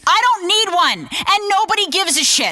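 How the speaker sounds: scornful retort. Acted. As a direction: snap back at a needy co-host. Co-hosts quarrel over his faded fame.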